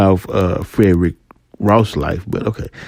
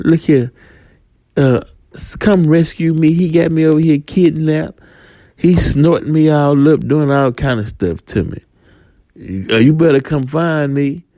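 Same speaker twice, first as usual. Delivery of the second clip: higher, pleading kidnapped voice; cocaine pleading; 6 semitones higher than usual. Acted. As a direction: beg to be rescued, pitched up. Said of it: "White girl tell you".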